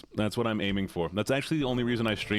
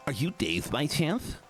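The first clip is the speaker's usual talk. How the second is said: slow, sassy, higher; 5 semitones higher, slower than usual. Acted. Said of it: "A sassy voice".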